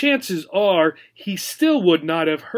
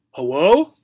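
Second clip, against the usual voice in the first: louder, questioning call; timid call; 5 dB louder than usual. Acted. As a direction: call into the empty room. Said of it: "Obi called out".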